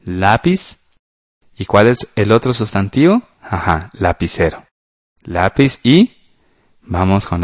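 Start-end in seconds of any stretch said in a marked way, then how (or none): none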